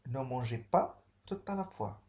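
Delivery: firm warning with pas stressed; a stern no; firm prohibition. Shown as a demonstration. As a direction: lean on pas to forbid it. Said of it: "Interdiction ici".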